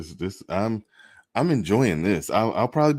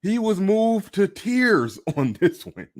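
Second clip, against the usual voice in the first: laughing; 11 semitones higher than usual. Real, not acted. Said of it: "I'm just laughing at this shit".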